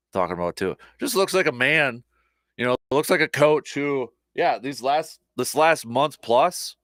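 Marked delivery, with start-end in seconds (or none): none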